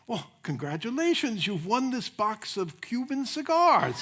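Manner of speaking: an eager Cuban stranger insisting, pitch climbing; excited Cuban accent. Retold or imitated. Cuban man pressing a cigar on a pastor, loud high Cuban accent. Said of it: "a man comes up with a Cuban accent".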